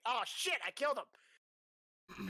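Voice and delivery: real, drawn-out burst of excitement; excited exclamation. Real, not acted. Player realizing the twelve kills him, excited. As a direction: exclaim it over a lucky killing roll.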